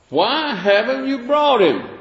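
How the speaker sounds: high, sharp demand; hammed-up indignant priest. Priests scolding the officers, a high indignant demand. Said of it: "chief priests and Pharisees says".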